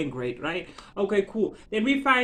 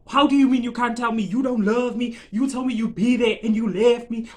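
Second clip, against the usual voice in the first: higher, louder mock confrontation; acted indignation; 4 semitones higher, 6 dB louder than usual. Jilted lover confronting the one who left, indignant. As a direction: throw the accusations at him, hurt and pissed. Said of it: "obviously I'm gonna be pissed".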